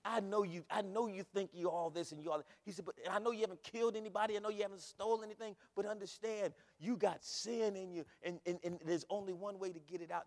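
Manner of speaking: urgent preaching. Acted. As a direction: preach it hard as God's own plea. Preacher voices God's urgent appeal.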